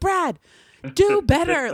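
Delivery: very high, loud, piercing put-on shriek. Retelling shouting at a referee during a game: imitating own screaming. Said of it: "I'm screaming, like".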